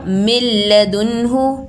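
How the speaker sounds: मिन लदुनहु slow, न dropped into a doubled ल; no nun sound. Shown as a demonstration. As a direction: recite मिन लदुनहु as मिल्लदुनहु, slowly. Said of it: "नून का sound ज़रा भी नहीं आ रहा".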